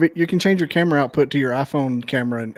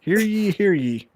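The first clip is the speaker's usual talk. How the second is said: mock proclamation; town crier; 6 semitones higher, slower than usual. Co-host mocks the public declaration, town crier style. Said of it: "It was like a declaration".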